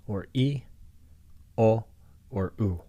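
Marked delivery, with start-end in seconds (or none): 0.1-0.6 "i" lifted as a clear vowel demo. Shown as a demonstration. Teacher demonstrating the vowel i. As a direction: sound out "i" for students. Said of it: "the characters can be pronounced differently".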